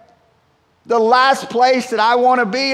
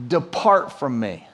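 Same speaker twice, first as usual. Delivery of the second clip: lower, slow, shrinking back; fearful plea; 6 semitones lower, slower than usual. Retold or imitated. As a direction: Peter asking Jesus to leave, awed and afraid. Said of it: "Remember his reaction?".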